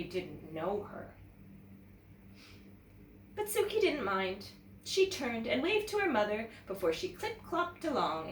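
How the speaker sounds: put-on lively read-aloud to children; teacher reads a picture book to young students, animated; storybook narration. A narrator's reading. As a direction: tell it like story time for kids.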